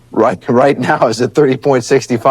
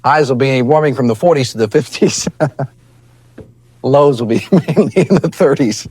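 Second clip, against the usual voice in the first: trying not to laugh. Real, not acted. Weatherman laughing through forecast.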